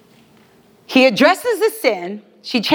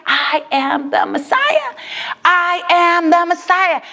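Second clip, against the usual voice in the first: solemnly emphatic acted proclamation; powerful declaration; 5 semitones higher than usual. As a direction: proclaim it with measured weight. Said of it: "the most powerful sentence in this conversation".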